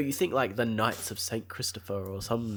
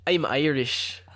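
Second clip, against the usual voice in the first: amateur Irish accent, a little higher; put-on Irish accent; 4 semitones higher, slower than usual. Shown as a demonstration. Friend showing her co-host the Irish accent first, put-on Irish. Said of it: "I'll do it first".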